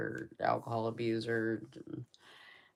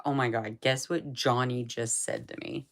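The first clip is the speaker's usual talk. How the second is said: excited; 6 dB louder than usual. Retold or imitated. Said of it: "She's like".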